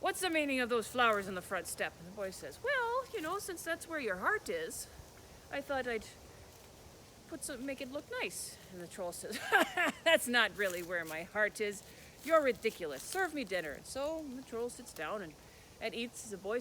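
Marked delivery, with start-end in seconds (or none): 0.0-1.9 louder, suspicious troll challenge; the troll confronting the boy over the flowers; troll's demand. Acted. 2.6-8.6 put-on much higher, innocent young boy voice; boy's innocent excuse. 9.4-10.0 loud mocking burst of laughter; troll's scornful laugh. Troll mocks the boy. 10.0-13.7 louder, dismissive troll scolding; the troll mocks the boy and orders dinner; troll's scorn.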